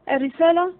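stunned realization; astonished. A narrator's reading. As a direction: gasp it out as it dawns on him. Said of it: "الوزير مندهشا".

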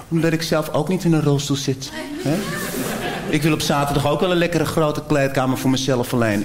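lightly put-on Amsterdam slang; chummy Amsterdam guy letting you in on a secret; a hint of Amsterdam street talk; Amsterdam accent. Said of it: "dat Amsterdamse accent wat ik zojuist even opzette".

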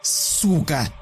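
high cry of pain; pained scream. Acted. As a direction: yell out in pain. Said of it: "закричала от боли Маша".

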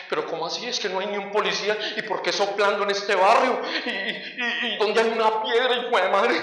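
mock-frantic complaint, stammering at the end; lightly acted panic; retold desperation. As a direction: flounder in comic despair, tripping over words. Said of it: "Yo salí ahí mismo desesperado".

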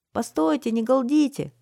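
high, loud hushing call; shouting. A narrator's reading. Boy lookout calling to townspeople below, shouting. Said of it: "крикнул Янтье".

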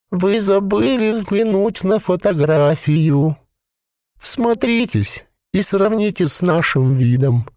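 a possessed corpse bubbling out its words; gurgling voice. A narrator's reading. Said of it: "Звук его голоса напоминал бульканье маслянистого варева".

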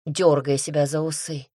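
usual speaking voice

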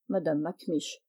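ordinary delivery, nothing marked

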